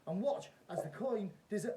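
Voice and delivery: loud, high showman patter; kids party magician. Acted. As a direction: play it big for the crowd. Repeats magician performance.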